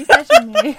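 very high, loud mock tattling; squabbling sibling. Host imitating tattling sibling, high mock squeal. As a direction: squeal it like a kid telling on a brother. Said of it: "They are those fucking siblings".

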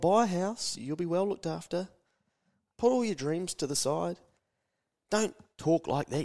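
disapproving elder. Retold or imitated. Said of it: "by the time you start getting a little bit older".

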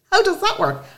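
imitating her own stunned question; incredulous. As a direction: ask it in mock disbelief. Retold baffled question.

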